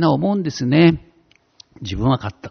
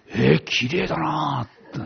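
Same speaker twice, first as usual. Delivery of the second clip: marvelling; 7 dB quieter, much slower than usual. Retold or imitated. Marvelling at the rainbow light.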